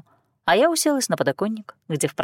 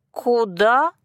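surprised; 4 semitones higher, 3 dB louder than usual. A narrator's reading. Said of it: "От удивления она даже села".

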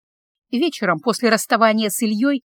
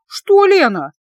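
sharp, higher and louder retort; displeased snap; 8 semitones higher, 6 dB louder, slower than usual. A narrator's reading. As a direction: snap back, offended. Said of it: "недовольно дёрнула плечами". (недовольно, резко, выше и громче)

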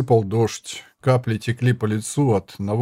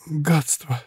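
exhaled curse; 5 semitones higher than usual. Acted. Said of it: "выдохнула арбалетчица".

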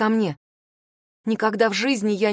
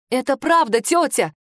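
tense ringing voice; 4 semitones higher than usual. A narrator's reading. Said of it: "напряжённый и звонкий".

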